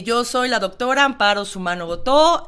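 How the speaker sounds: loud, projected speech at a steady pitch; strong public-speaking voice, controlled; projected voice, not shouting. Shown as a demonstration. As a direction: project as if addressing forty people, without shouting. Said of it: "fuerte, sin gritar".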